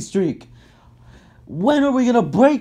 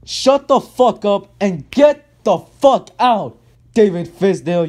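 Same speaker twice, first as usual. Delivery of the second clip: slow angry order; 3 dB louder than usual. Real, not acted. Final angry sign-off to coach.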